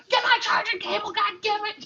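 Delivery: hammed-up drunk muttering about a cable; mock drunk grumble. Drunk husband retelling his own outburst, mock high voice. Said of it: "and I'm like".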